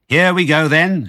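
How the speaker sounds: high, loud eager yell; gleeful shout. A narrator's reading. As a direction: roar into action. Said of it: "shouted Bean".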